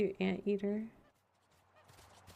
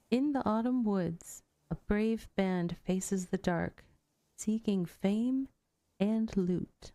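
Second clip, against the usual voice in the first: poem recital; slower than usual. Shown as a demonstration. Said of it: "haiku that I am going to do".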